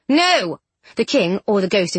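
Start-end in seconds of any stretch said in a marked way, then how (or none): 0.1-0.6 sharp loud refusal; a higher, louder no; defiant shout. A narrator's reading. King refuses loudly.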